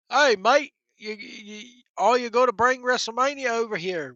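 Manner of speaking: put-on slipping into a light Australian accent; a mock Aussie begging for the event, in an Australian accent. Australian fans pleading for a WrestleMania, in a light Australian accent. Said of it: "Why do I sound like a damn Australian?".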